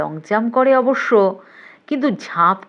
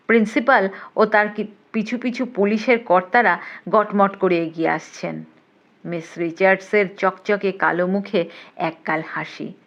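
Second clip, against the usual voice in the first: plain reading voice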